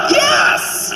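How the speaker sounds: a parent cheering wildly at ringside; mock cheer.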